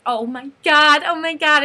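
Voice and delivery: high, loud mock scream; imitated fan scream. Fan leaving the tent after the hug, mock screaming. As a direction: squeal it in overwhelmed joy. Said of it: "I, like, screamed".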